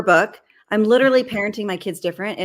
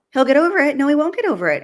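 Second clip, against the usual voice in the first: louder and higher, firmly refusing; emphatic retort; 7 semitones higher, 5 dB louder, faster than usual. Real, not acted. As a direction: tegas menolak dengan suara lebih tinggi. Rejecting dismissive parent line.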